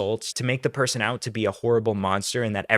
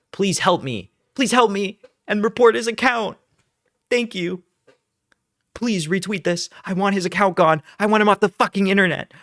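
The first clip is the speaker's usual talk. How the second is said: higher and louder, a whiny, entitled plea; mocking whiny accuser; 7 semitones higher, 5 dB louder than usual. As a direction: parody her demanding, rising to a fast rant. Mock-reading her tweet.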